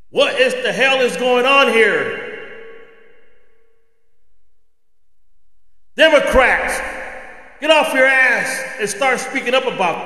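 fed up, shouting at the politicians to wake up; angry. Real, not acted. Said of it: "You could tell by my voice that I am angry".

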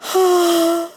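loud open-mouthed yawn; big yawn. Acted. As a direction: stretch into a yawn.

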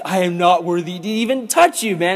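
mildly flustered protest; a touch of panicked refusal; freaking out. Acted. John protesting to cousin Jesus, mildly freaking out. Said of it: "John is freaking out".

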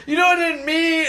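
squeaky, flustered high voice; high-pitched flustered cartoon guy; high mock cartoon voice. Cartoon guy apologizing to crying babies, high and squeaky. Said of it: "He's like".

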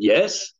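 incredulous YES rising sharply at the end; questioning yes. Acted. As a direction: stretch YES up into a doubting question. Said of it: "was the yes said sort of in a question mark".

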